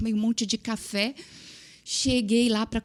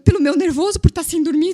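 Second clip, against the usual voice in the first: loud, high, laughing through it; high-pitched frazzled laughing cry; mock nervous outburst; 8 semitones higher, 8 dB louder than usual. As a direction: blurt it out, frazzled and giggly. Mimics nerves from no sleep.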